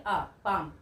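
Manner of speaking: आ held open, then पाम; vowel demo. Shown as a demonstration. Teacher isolating the आ sound in पाम. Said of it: "sound क्या रही है?".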